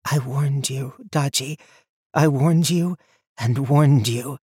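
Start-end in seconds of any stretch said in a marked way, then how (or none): 2.1-4.4 insistent warning. A narrator's reading. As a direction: drive the repeated warning home. Mira repeats warning, rising.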